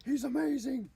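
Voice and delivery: drawn-out high-pitched awe; awed gamer. Retold or imitated. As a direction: marvel over the shitty mic. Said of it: "everyone's going".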